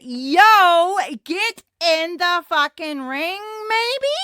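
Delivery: high, loud "yo" rising into a question; mock ref hollering, pitch climbing at the end; exasperated referee. Referee to wrestlers outside the ring, exasperated imitated call. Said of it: "but the ref is like".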